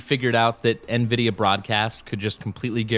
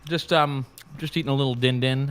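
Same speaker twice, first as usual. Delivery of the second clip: crunching food. Real, not acted. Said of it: "I don't know if you can hear my crunching".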